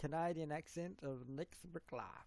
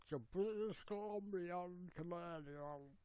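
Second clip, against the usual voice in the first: exaggerated British Columbian Canadian; mock British Columbian accent, words stretched together; 3 semitones higher, 4 dB quieter than usual. Shown as a demonstration. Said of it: "you've got this separated dialect here".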